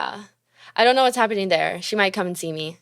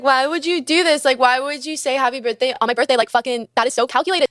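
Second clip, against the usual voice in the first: higher, incredulous complaining; exasperated disbelief; 4 semitones higher, faster than usual. Retold or imitated. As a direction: throw it back at her in disbelief. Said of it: "And I was like".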